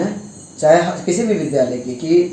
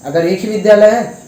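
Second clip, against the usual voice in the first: louder and higher, pressing the point; emphatic repeat; 4 semitones higher, 4 dB louder than usual. Real, not acted. Student leader pressing the management, louder and higher. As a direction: hit it harder the second time.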